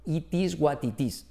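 Spanish-accented, word-by-word "It is what it is"; careful "it is wat it is" in a Spanish accent; Spanish teacher's English. Shown as a demonstration. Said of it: "Así no se enseñaría un profe de español".

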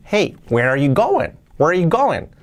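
tuneful question, "going" lifted, then falling on the repeat; question intonation. Shown as a demonstration. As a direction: swing the pitch up and down through "where are you going". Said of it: "Y entonación".

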